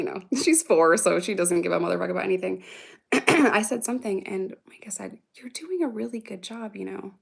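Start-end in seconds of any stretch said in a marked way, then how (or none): 5.3-7.1 soft, tender imitation of a sweet preteen; quietly voiced encouragement from a kid; sweet reassurance. Preteen reassuring her stressed mom, gently and sweetly. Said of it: "she was so sweet yesterday".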